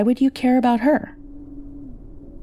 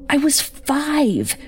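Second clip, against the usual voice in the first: very slow and higher, each word weighted; bitter emphasis; 5 semitones higher, much slower than usual. Acted. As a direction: lay each word down slowly, accusing. Daughter accuses mother of neglect.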